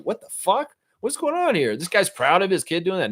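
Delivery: mock baffled outrage, high and incredulous; stunned Trevor. Trevor reacts to the proud neighbor, high disbelieving voice. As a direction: pitch jumping up in disbelief. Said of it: "Trevor's like".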